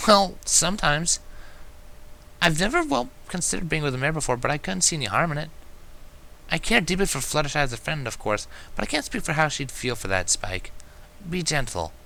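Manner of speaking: bright lifted mare, explaining; Twilight's voice. Acted.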